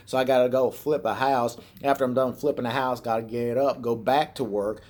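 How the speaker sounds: trucker brother's mock hillbilly twang; put-on Southern hillbilly accent. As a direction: imitate a hillbilly trucker griping. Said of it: "got a hillbilly accent".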